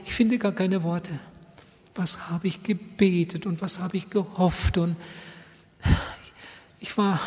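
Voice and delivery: tearful wife. Retold or imitated. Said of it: "hat einfach geweint".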